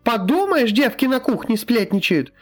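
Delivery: scolding wail. A narrator's reading. Healer girl berating the men, shrill scolding. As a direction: scold them all like an outraged woman.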